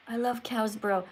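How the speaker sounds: softly reread, half to yourself; puzzled rereading. Real, not acted. Teacher puzzling over a viewer's comment, quiet and unsure.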